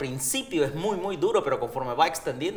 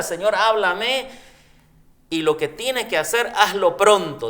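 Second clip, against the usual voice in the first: mock pleading prayer; 5 semitones higher, 7 dB louder than usual. Third mock prayer, hurried verse.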